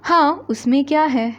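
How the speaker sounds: put-on a small boy keen to help; eager little brother.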